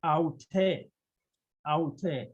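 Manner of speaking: "aute" said ow-TEH, two clear syllables; careful Greek pronunciation. Shown as a demonstration. Teacher modelling feminine form for learners, "aute" carefully as ow-TEH. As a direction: pronounce "aute" with an open eh ending. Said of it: "we pronounce it as".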